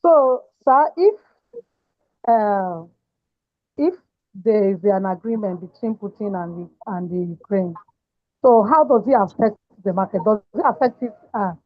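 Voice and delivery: unsteady, wavering voice; shaking voice. Real, not acted. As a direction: voice shaking on a bad line. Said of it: "Your, your voice is shaking".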